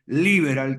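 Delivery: "liberal" stressed on its first syllable, li-, English style. Shown as a demonstration. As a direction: say "liberal" with the accent on the I. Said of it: "con acento en la I". ("liberal" con acento en la I)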